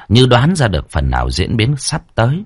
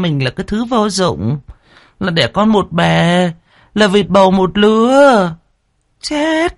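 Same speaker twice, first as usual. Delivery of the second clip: put-on higher, bitter older woman; first wife voice; 8 semitones higher than usual. A narrator's reading. First wife lamenting the maid's son, bitter. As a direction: spit out the insult, resentful.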